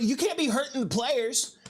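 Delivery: high-pitched mock indignation; mad family. Family scolding the teller over the tackle, high mock anger. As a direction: scold like an outraged relative, imitated. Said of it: "they were all mad at me".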